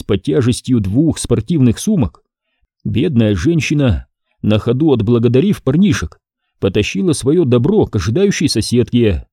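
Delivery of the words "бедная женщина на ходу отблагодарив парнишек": ordinary delivery, nothing marked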